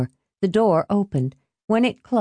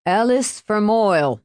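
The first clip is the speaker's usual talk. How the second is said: calling out; 4 semitones higher than usual. A narrator's reading. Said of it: "he called".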